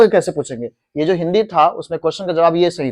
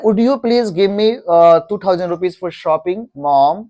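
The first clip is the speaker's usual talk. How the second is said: very slow, polite asking; polite question to mom, drawn out; much slower than usual. Shown as a demonstration. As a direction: ask mom slowly, politely. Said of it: "कह रहा है".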